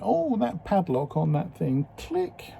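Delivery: soft breathy padlock click sound; whispered click. Retold or imitated. Padlock snapping open.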